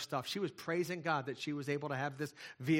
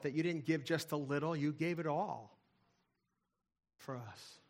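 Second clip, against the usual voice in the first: earnest spoken prayer to God; pastor's closing prayer, sincere. Real, not acted. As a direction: pray sincerely over the congregation.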